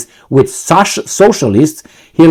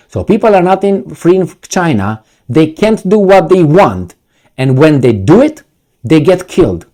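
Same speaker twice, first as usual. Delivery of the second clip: mocking repeat. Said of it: "Who speaks like this?".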